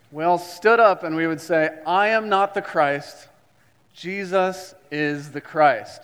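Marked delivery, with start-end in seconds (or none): 1.9-6.0 group recitation. Shown as a demonstration. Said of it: "So I want you to stand up with me".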